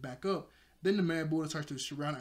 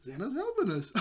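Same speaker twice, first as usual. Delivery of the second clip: laughing; 8 semitones higher, 3 dB louder than usual. Retold or imitated. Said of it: "I was like".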